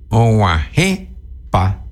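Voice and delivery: "guajepa" said very slowly with "pa" left light; slow, keep "pa" in "guajepa" unaccented; unstressed pa. Shown as a demonstration. Teacher to listeners, slow "guajepa" with light "pa". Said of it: "usa el pa átono".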